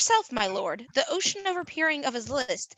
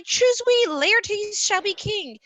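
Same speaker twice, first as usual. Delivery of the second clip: a lightly voiced mob cry, higher and louder, the king part slow; crowd cry; 7 semitones higher, 4 dB louder, much slower than usual. Messenger voicing the crowd crying for Laertes, a mild mock chant. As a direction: call it out like the rabble.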